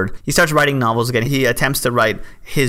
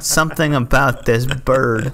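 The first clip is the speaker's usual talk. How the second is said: Foghorn Leghorn; 3 semitones higher, slower than usual. Retold or imitated. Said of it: "Foghorn Leghorn was walking around like".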